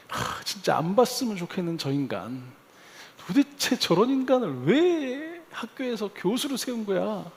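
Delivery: mildly angry inner grumble; mock-exasperated venting to oneself; retold exasperation. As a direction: replay indignant complaint, pitch climbing into the question. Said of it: "하고 화가 나는 그 인간이요".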